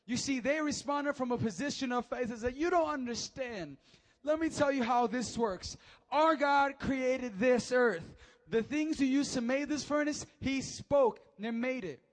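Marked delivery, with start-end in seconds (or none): 2.6-12.0 loud, high, slow fiery preaching; loud defiant preacher voice; preaching at full force. Acted. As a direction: hammer the youths' reply home. Preaching the youths' reply.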